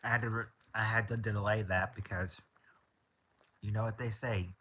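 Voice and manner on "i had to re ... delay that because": talking through a mouthful, half whispered; words round a bite of food; mouth full. Real, not acted. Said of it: "can't talk with your mouth full".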